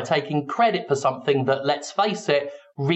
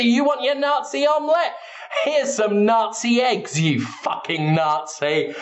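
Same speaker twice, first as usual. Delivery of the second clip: mock jeering crowd; 7 semitones higher than usual. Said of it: "They say".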